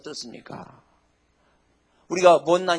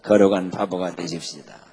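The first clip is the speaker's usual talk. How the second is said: congregational response; 10 semitones lower, 5 dB louder than usual. Shown as a demonstration. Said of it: "시작".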